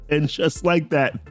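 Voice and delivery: high laugh running into the words. Real, not acted. Vlogger still laughing while recapping, laughing. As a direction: laugh through the line. Laughing at Death Seed joke.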